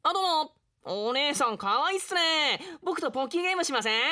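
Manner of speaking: lightly voiced, smooth pickup line; flirting samurai. Samurai flirting with the waitress, smooth and cheesy. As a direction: hit on her with cheesy charm.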